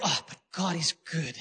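low, soft mock pleading; soft excuse. Sinner argues away God's judgment, soft low excuse. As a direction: murmur a self-soothing excuse. Acted excuse, set against louder repeat.

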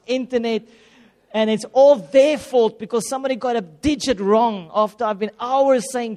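getting heated all over again retelling it; mock outrage at the phone company; worked up. Real, not acted. Recounting being cut off.

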